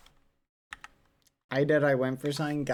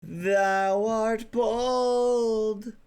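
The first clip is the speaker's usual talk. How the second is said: mock Shakespearean insult; 3 semitones higher, much slower than usual.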